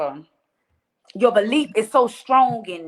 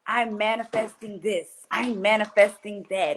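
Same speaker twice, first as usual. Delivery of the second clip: slow, drawn-out mock mantra; lightly mocking, measured recital; mock spiritual talk; slower than usual. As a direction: imitate a self-styled manifester, stretching each word. Mocks talk of spiritual people.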